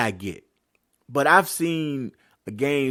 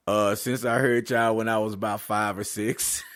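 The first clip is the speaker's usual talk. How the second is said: laughing reply. Retold or imitated. Answering aunties with a laugh.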